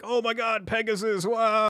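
high but soft mock amazement; half-hearted imitation of excited shouting; mock screaming. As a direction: imitate gushing fans in a held-back, high voice. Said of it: "folks are always screaming and shouting like".

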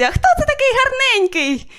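put-on very high cooing baby talk; dog-owner baby talk. Dog lover cooing very high at the little dog. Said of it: "Собачник каже моїй собачці".

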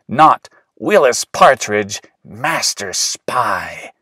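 pretend master spy. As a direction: savor the title like a secret agent.

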